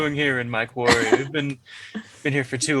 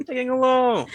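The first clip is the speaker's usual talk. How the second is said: put-on old prospector; 10 semitones higher, 3 dB louder than usual. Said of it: "Why would you say that in normal conversation?".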